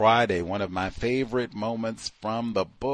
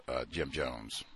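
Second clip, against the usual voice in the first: ordinary talk, nothing marked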